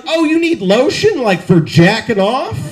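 lightly mock an over-eager employee; slow down into a suggestive rising question; kinky store employee. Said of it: "It's a kinky Safeway employee".

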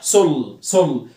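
"سول" alone as "sol", l sounded; firm "سول" with a clear final l; syllable demo. Shown as a demonstration. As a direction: isolate "سول" as one loud syllable. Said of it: "ال ال هتنطق صح".

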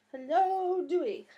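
high pet voice with a falling hello; cat's cute voice. Pretend. Owner voices her cat Dewey saying hello back, high and cutesy. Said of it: "Say hello, Dewey".

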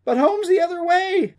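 high, loud, frantic protest; yelling. A narrator's reading. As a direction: yell an objection from behind the wheel. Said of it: "Dusty yelled".

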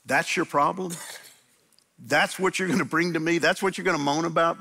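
high, disbelieving rebuke, a touch mocking; amused, incredulous divine scolding; incredulous God. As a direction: raise the voice in mock disbelief as God. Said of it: "hear God going".

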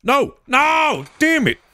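high-pitched cry of dismay; real frustration. Real, not acted. Player lost track of the quoted word, frustrated cry.

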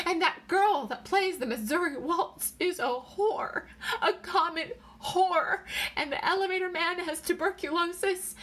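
high, tearful, mounting distress; wailing. A narrator's reading. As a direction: pour it out in a high wail. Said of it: "She wailed".

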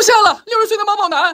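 high shocked squeal through laughter. Real, not acted. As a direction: burst out in disbelief.

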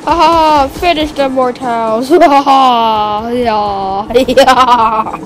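evil villain gloat. Pretend. Playing villain Thanos gloating.

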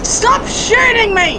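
playful protest. Real, not acted. Protests being shot in game.

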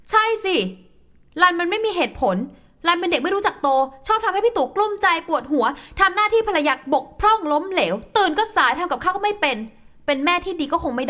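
wife sarcastically mocking her husband's criticisms; sarcastic. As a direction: throw his complaints back at him sarcastically. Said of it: "เอา ประชดเข้าไป".

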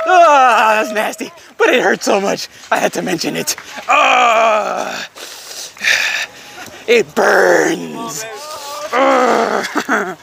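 crying out from a burning blister; real pain, voice breaking. Real, not acted.

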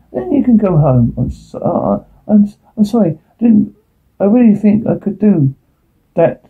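fail to keep a straight face and apologize; losing straight face. Real, not acted. Actor apologizes for not keeping a straight face, cracking up. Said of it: "could do that with a straight face".

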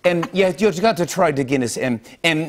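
hesitant Northern Irish patter; Northern Irish accent. Shown as a demonstration. Host urges Guinness in character, Northern Irish accent. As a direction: put on chatty Northern Irish. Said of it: "That's Northern Irish".

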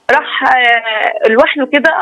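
words break off, holding back tears; choked up. Real, not acted. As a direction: voice catching into a slow sob. Caller breaks down recounting husband. (صوت مختنق بالبكاء)

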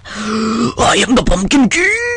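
slow, grand royal announcement; grand proclamation. Pretend. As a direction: declare yourself king.

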